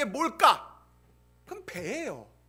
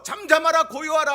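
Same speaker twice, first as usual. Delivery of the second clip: a firm, louder command; commanding rebuke; 5 dB louder than usual. Acted. Pastor voicing Jesus calming the sea, firm louder command. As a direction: hush the storm with authority. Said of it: "이것을 예수님께서".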